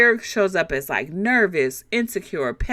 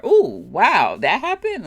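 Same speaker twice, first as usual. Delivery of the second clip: mock surprised; 4 dB louder than usual. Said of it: "You're just reacting".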